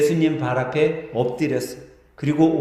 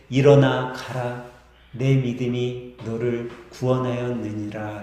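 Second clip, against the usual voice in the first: solemn Jesus; 5 semitones lower, slower than usual. Acted. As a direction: speak as a calm master sending him off. Jesus blesses the healed man. (엄숙하고 느린 예수님의 축복)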